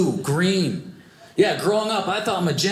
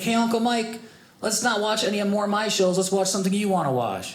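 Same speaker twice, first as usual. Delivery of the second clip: put-on higher-pitched little kid voice; young nephew; 5 semitones higher than usual. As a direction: imitate an eager child talking to an uncle. Voicing his young nephew.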